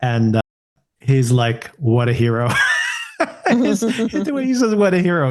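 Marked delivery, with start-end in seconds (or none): 1.8-2.5 deadpan, bone-dry sarcastic praise; mock the hero with flat irony; sarcastic "What a hero"; dry sarcasm. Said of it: "so dry and sarcastic". 4.7-5.3 deadpan ironic praise, a little lifted; sarcastic "What a hero"; dry sarcasm. Retold or imitated. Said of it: "so dry and sarcastic".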